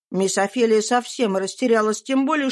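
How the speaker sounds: ordinary delivery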